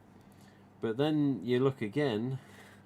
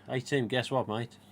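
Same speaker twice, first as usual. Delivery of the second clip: a light mock Australian accent, friendly; lightly put-on Australian mate greeting. Collector Kurt teasing Tim with news, mild Australian accent. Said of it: "That's an Australian accent there".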